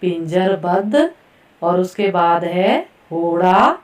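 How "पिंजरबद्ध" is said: पिंजरबद्ध repeated clearly, ending on a rise; teacher repeats पिंजरबद्ध distinctly; careful pronunciation. Shown as a demonstration. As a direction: say पिंजरबद्ध again as a model. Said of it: "पहला शब्द मैं फिर से दोहराऊंगी".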